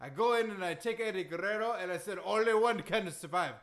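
put-on boastful accented wrestling champ; Iron Sheik. Wrestler reciting his wins to the host, boastful accent. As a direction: brag in thick broken English. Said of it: "that Iron Sheik impression".

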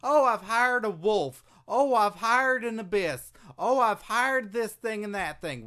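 lightly mocking boss voice; whiny mock impression of the boss. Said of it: "Dixie keeps hiring".

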